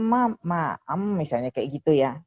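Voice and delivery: patiently modelling a first word, syllable by syllable; patient coaching. Shown as a demonstration. Adviser showing parents how to teach "mama", patient coaching. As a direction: coax a toddler through the syllables. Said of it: "tapi kita sabar".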